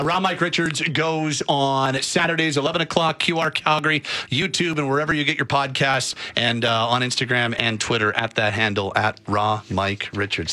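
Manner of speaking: upbeat radio promo; radio plug. Acted. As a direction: announce the show times like a DJ.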